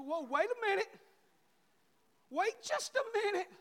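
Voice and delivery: acted-out fatherly objection; mock protest. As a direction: halt her with sudden playful indignation. Father calling his daughter back.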